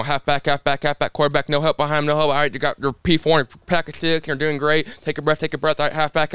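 lightly voiced spotter rattling calls like an auctioneer. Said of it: "It sounds like an auctioneer".

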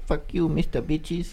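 put-on high, slow, soft accented scold; mock Asian accent. Husband imagining his wife waving the dogs, slow accented jibe. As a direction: tease him in her accent, slowly. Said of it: "She's like".

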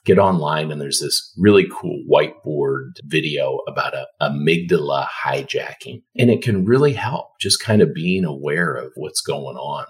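low-pitched, soothing explanation; calm and soothing. Real, not acted. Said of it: "your voice is so calm and soothing".

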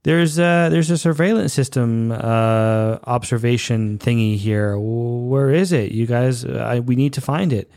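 a hint of brash swagger barking orders; cocky Shran. Podcaster imitating Shran bossing the monks, lightly voiced swagger. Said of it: "and he's like".

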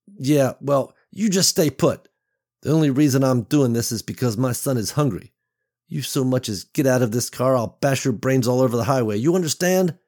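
threatening warning. Acted. Beverly threatens the man.

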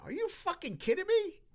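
very high, loud mock fan yell; imitating a furious fan. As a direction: yell it up high like a fan who can't believe the miss. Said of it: "you heard a fan going".

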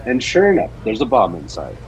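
dramatic story reading; story narration. Acted. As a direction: read it like an audio drama narrator. Reads Batman story aloud.

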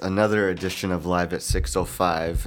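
slow, low-energy hungover voice; dragging hungover intro. Real, not acted. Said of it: "I'm very hungover".

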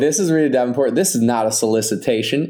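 lightly imitated Tennessee accent; a hint of Tennessee in the voice. Co-host quotes a guest's phone call, lightly mimicked Tennessee accent. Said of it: "in her, like, Tennessee accent".

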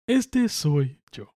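slow, drawn-out cartoon rat voice; Remy rat voice. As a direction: say it slowly like a little cartoon rat. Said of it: "como en la película de Ratatouille".

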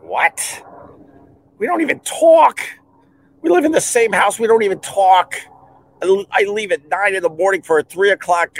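put-on high, exasperated retort to his crying girlfriend; exasperated boyfriend retort, high. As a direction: pitch it up in disbelief. Exasperated reply to proposal hope.

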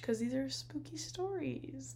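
spooky whisper. Real, not acted. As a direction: breathe it out as a whisper. Setting up spooky stories.

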